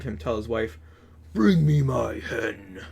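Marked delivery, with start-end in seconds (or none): 1.3-2.8 slow whisper; giant's whispered order. A narrator's reading. Giant telling his wife to bring the hen, whispered. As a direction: hush it out, slowly.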